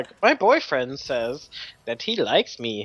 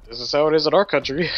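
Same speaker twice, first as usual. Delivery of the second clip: mock Indian accent; 4 dB louder, faster than usual. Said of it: "I didn't do the accent on purpose".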